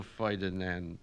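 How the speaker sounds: put-on high, loud Yiddish-accented orator; Yiddish-accented Kaplan, holding forth grandly; Yiddish-accented immigrant student. Student lecturing his night class in a Yiddish accent. Kaplan scorns Columbus's boats.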